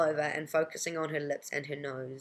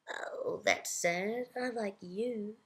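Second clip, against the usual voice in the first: sympathetic; 6 semitones higher, much slower than usual. Acted. Narrator consoles the old woman.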